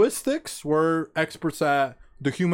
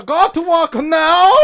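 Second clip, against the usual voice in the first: higher and louder, slow dictator command; mock barked order; 9 semitones higher, 8 dB louder, slower than usual. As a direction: bark the order like a tyrant. Kim orders family, shouted.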